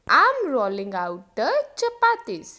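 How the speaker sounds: I am rolling out the chapatis, slowly; slow model sentence. Shown as a demonstration. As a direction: drill it slowly for learners. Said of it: "तो कैसे बोलोगे?". (धीरे-धीरे बोलें)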